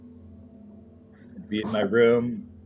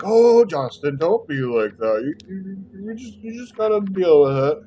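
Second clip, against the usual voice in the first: exaggerated high, loud parent impression; mock scolding parent; 10 semitones higher, 8 dB louder than usual. Parents tell Justin to deal with it, in mock scolding voices. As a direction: mimic a parent's exasperated plea, swooping high.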